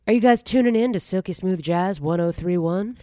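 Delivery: lightly voiced radio jazz host; Delilah. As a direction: croon the station name like a smooth-jazz DJ. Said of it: "You sound like Delilah".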